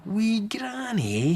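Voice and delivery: slow, eager whisper; a curious boy's whisper. Acted. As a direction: lean in and whisper the name. Harry can't wait.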